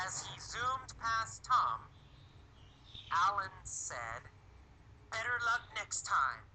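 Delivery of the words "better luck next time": higher, quick quoted taunt; mild mock yell. Teacher repeats Alan's words to passing Tom, mild mock yell. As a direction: lightly act out a called taunt. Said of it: "he yelled".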